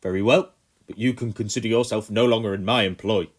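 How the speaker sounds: loud, curt colonel; clipped dismissal; stiff composure. A narrator's reading. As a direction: colonel regaining control, still loud. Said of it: "regaining his composure".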